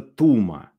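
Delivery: «Тума» with the beat on ТУ; stress on first syllable. Shown as a demonstration. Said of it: "где ударение".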